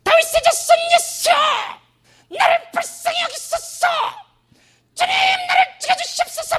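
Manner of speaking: shrill, very high crying-out of a desperate mother; a mother's frantic cry for mercy, very high and loud; desperate shouting plea. Acted. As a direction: scream it to Jesus with everything you have. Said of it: "더 소리 지르는 거야".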